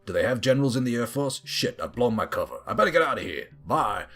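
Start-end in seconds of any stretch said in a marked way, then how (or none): 1.4-4.0 put-on American accent. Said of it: "had to sit through that awful accent".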